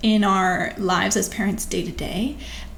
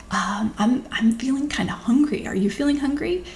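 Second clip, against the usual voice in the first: playful tone; 3 semitones higher than usual. Shown as a demonstration. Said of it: "have kind of a playful tone in your voice".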